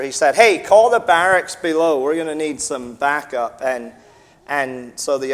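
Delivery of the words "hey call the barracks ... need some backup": retold yell. Retelling the policeman calling for backup, mild mock yell. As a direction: call out like an officer wanting backup. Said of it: "he yelled at the other".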